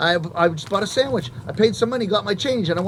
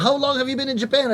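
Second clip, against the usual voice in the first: eager clerk; 6 semitones higher than usual. Retold or imitated. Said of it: "She said".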